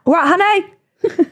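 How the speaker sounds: slow, high sing-song "Right, honey?"; camp sweet impression. Mimicking James greeting a straight man, slow camp lilt. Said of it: "It can be the straightest ma".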